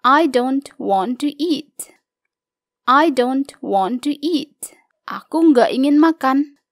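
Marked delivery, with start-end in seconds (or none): 2.9-4.7 whispered. Shown as a demonstration. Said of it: "Kata do not bisa diubah menjadi don't".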